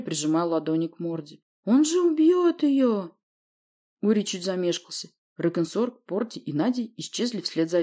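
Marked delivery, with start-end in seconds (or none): 1.6-3.2 very high, loud and slow; mother wailing in fear for the princess; panicked wail. Acted. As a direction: plead in terror. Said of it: "завопила Воля".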